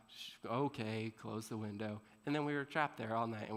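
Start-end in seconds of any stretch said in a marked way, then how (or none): 0.1-2.0 softer, slow resignation; busted teen closing the window; defeated mutter. Retold or imitated. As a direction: give up quietly.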